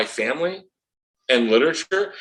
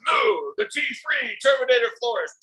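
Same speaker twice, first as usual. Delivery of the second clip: high shouted Arnold voice; Terminator voice; 11 semitones higher than usual. Acted. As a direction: bark it like the Terminator. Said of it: "did a great Terminator impression".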